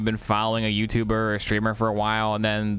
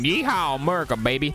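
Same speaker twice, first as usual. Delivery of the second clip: Texan cowboy whoop; 3 semitones higher than usual. Retold or imitated. Mocking the American stereotype, hammed-up yeehaw. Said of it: "And he's going".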